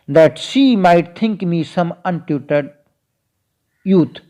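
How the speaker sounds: very slow, deliberate reading of the verse; unhurried verse reading; slow poem recital. Acted. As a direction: lay each word of the poem out for the class. Recites the sonnet line.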